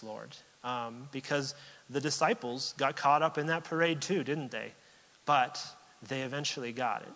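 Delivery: heartfelt prayer voice, rising and falling; closing prayer. Acted. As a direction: pray aloud for the congregation.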